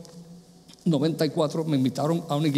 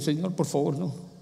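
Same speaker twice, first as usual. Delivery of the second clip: pleading; 3 semitones lower, 6 dB quieter than usual. Retold or imitated. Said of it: "comencé a llorar y decir".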